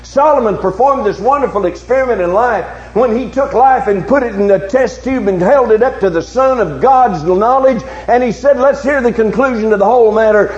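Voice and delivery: impassioned sermon challenge to the congregation; forceful preaching. Real, not acted. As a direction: preach it out with driving, sustained emphasis.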